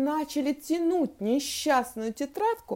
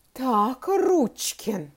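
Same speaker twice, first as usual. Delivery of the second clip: hard, loud, stern summons; metallic voice; 2 semitones higher, 5 dB louder, much slower than usual. A narrator's reading. Teacher addressing the offending pupil, metallic and stern. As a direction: call the pupil out coldly. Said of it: "произнесла она металлическим голосом".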